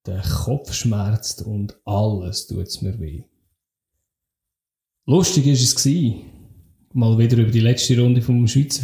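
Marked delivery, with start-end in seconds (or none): 0.1-3.2 groggy hangover voice, slow; nursing a hangover; hungover. Real, not acted. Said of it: "verzeiht mir meinen Hangover".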